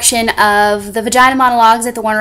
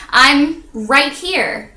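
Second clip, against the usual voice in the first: insistent call; 3 semitones higher, much slower than usual. Acted. Insists she is already visible.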